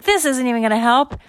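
high, loud complaint; acted high-pitched despair; exasperated kid. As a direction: wail it as a frustrated boy. Bar despairs at one tissue.

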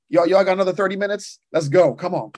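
playful, revved-up call to keep going; eager plea. Real, not acted. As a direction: egg the crowd on. Asking for thirty more minutes.

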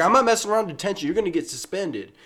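high, fast angry scolding; mock angry teacher. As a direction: imitate a furious teacher yelling. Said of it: "she was like".

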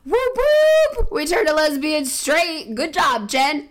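high, loud hammed-up Jesus cheering; playful impression of Jesus praising; mock Jesus voice. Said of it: "Jesus is like".

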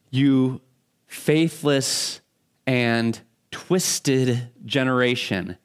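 slow, weary, fed-up sigh of a line; Jesus fed up, sighing at the crowd; exasperated. Shown as a demonstration. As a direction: let it out like a tired sigh. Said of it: "exasperation or, or just, oh, a sigh".

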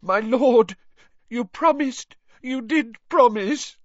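high, desperate begging; pleading whine. A narrator's reading. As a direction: whimper the plea. Wormtail begging his master.

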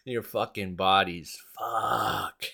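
slow, drawn-out mock pickup line; mock singer's line. Quoting a singer's line to his audience, slow and mocking. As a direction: savour each word like a bad come-on. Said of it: "I love that one".

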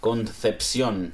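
slow "Concepción" as con-thep-SYON; careful "Concepción" with s in the last syllable; second C missed. Shown as a demonstration. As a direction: lisp only the first soft c of "Concepción". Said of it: "No, la segunda es una C".

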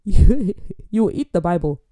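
loud, slow hammed-up decree; mock stern command. Host sending guest to learn prayer, mock-stern decree. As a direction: lay down the punishment slowly and loudly. Acted punishment for bad grace.

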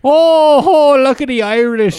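bad high Boston accent; badly faked Boston accent. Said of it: "That's the worst Boston accent".

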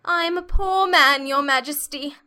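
high, slow, pleading voice; trembling Hatter. A narrator's reading. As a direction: plead fearfully with the king. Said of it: "began in a trembling voice".

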